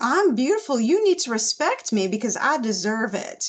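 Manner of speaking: worst-ever put-on Southern accent. Describing how Daisy presents herself, speaking as her in a bad Southern accent. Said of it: "that's the worst Southern accent ever".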